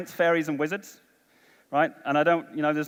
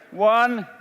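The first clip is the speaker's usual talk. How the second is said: called out high and loud to the hall; rally the room with a high, loud count; loud countdown; 8 semitones higher, 5 dB louder, much slower than usual. Real, not acted. Counting down for the crowd.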